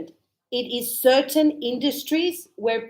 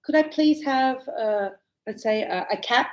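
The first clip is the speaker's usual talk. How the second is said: first-time customer. Retold or imitated. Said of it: "you go".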